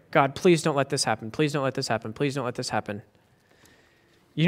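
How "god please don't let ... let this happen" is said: pleading softly. Retold or imitated. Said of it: "Nowhere in the psalm does he pray".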